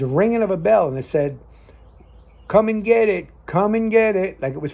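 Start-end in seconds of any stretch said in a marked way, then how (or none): 2.5-4.4 high, raised calling out; cowboy-film dinner call. Retold or imitated. Mimicking ghostly voice calling people to food, cowboy-film dinner call. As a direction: call them in to eat like an old western cook. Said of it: "like years ago in your cowboy films".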